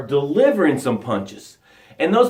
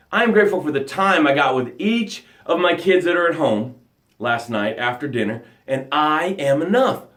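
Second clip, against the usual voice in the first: sample gratitude; 3 semitones lower than usual. Shown as a demonstration. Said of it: "This is how it sounds".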